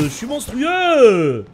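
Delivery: slow, loud stretched brag; hyped drawn-out boast. Real, not acted.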